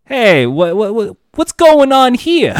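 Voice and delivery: high, loud and slow, a flustered guy; startled bystander. Pretend. Improvising a stranger who meets Jason Todd, high and flustered. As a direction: play the nervous stranger caught off guard. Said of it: "just say something to me".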